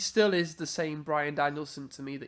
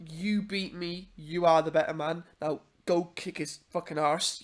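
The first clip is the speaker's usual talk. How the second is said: put-on Irish accent. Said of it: "I said that in an Irish accent".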